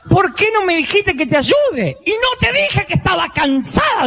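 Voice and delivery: high bewildered husband; puzzled husband. Acted. Husband and wife quoted.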